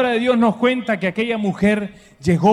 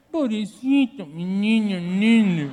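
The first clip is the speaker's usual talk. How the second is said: coddling mom voice; slower than usual. Retold or imitated. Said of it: "yo quería que mi mamá me dijera".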